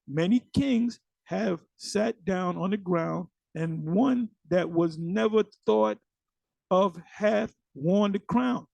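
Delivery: slow, deliberate verse reading; scripture reading. Acted. Teacher reading the verse again to viewers, slow scripture reading. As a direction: read it out slowly, weighing each phrase.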